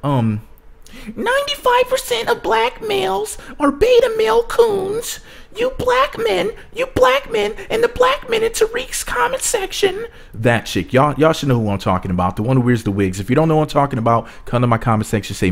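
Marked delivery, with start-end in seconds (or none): 1.2-10.0 very high, slow nasally mockery; nasal woman impression. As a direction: lampoon her in a squeaky nasal voice. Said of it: "What's something else that idiot says?".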